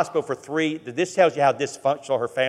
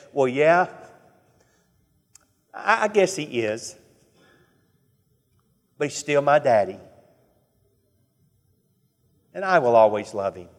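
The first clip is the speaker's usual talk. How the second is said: tender voice. Retold or imitated. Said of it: "with the most tender voice".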